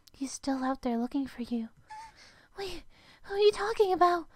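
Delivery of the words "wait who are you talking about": calling out. Acted. Girl calling after vanishing self.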